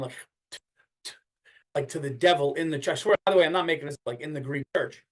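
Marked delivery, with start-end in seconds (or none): 0.0-1.1 dry spit sound on a short breath; quiet, dry "t" spit; mimed spitting. Shown as a demonstration. Demonstrating the church ritual, mimed dry spitting. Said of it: "like, breath in and".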